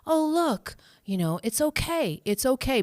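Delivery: bright bursts up high on each "Oh, look"; cheerful self-talk. Retold or imitated. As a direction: greet each old wound like a pleasant surprise. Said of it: "Beautiful compassion".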